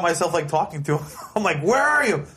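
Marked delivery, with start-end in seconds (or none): 1.6-2.2 high-pitched mock challenge to a ghost; calling out to a spirit. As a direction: retell calling out into an empty garage, pitch way up.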